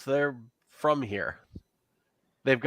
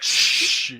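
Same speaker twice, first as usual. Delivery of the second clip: a sharp unvoiced shush; 5 dB louder than usual. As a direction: hush the others fast. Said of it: "they tell you to shush".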